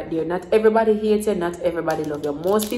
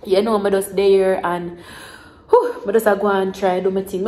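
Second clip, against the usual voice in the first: choked up. Real, not acted. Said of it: "I get so emotional".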